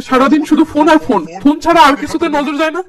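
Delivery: angry scolding. Acted. Father scolding his daughter over her phone, angry. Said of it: "নীরব রেগে মেগে বলে".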